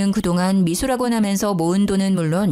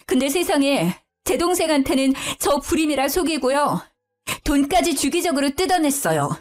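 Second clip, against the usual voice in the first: angry wailing; 6 semitones higher than usual. Acted. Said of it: "저는 화가 나서 울부짖었죠".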